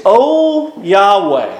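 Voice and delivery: drawn-out, ringing public prayer; praying. Acted. Elijah prays aloud at the evening sacrifice, solemn invocation. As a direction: call on God, stretching the names. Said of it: "Elijah begins to pray".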